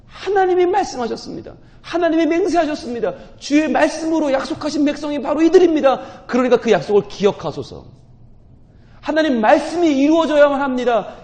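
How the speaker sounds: high, loud impassioned preaching; full-force sermon climax; fervent preaching. Real, not acted.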